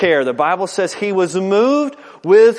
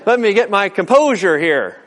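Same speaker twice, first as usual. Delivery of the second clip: hammed-up flustered dad, higher voice; defensive, hiding tears; 4 semitones higher, 4 dB louder, faster than usual. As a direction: brush the kids off in mock indignation, a bit louder. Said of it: "I'm beginning to cry".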